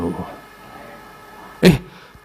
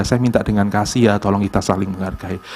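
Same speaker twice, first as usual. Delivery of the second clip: gentle plea; 7 semitones lower than usual. Retold or imitated. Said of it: "kita sudah meminta dengan kasih ya".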